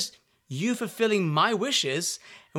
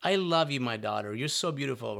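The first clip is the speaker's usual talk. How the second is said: loving parent; 5 semitones lower than usual. Retold or imitated. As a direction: speak gently, as if to your own child. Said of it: "looked at us with love in their eyes and said".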